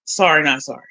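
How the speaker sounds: ordinary talk, nothing marked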